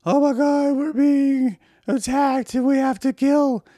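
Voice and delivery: hammed-up high-pitched alarm about being attacked; panicked patriots. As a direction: shriek like a hysterical crowd whipped into war. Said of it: "to love their people said".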